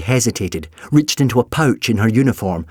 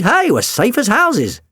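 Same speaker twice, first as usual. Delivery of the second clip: sarcastic; 12 semitones higher, 3 dB louder than usual. A narrator's reading. Doctor being sarcastic.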